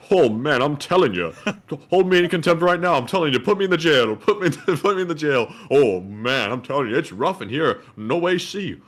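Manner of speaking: lightly voiced put-upon jailbird; mock lament from a cell, half-joking; Rodney voice. Cohost riffing about being jailed in a Rodney-style voice. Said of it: "talk to the judge in that Rodney voice".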